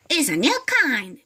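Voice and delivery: lightly voiced sneaky old woman; sly hag. Mrs Twit fibbing to her husband, sly. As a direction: fib with fake sweetness.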